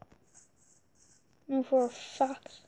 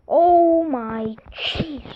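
shocked gasp; 5 semitones higher, 9 dB louder, much slower than usual. Real, not acted. Scared gamer finding danger.

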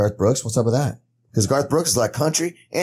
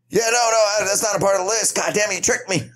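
higher, laughing mock protest; laughing in character; 7 semitones higher than usual. As Sheen, laughing at being tricked. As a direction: crack up while protesting. Caught out while playing Sheen.

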